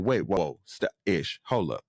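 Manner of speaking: imitated low, lightly calming interjection; calming him down. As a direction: drop the pitch as if to halt a friend. Acts out trying to calm Ish.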